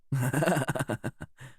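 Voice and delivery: a short, high, strange laugh; odd laugh of a mad captor; eerie laugh. A narrator's reading. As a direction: laugh at her like a madman.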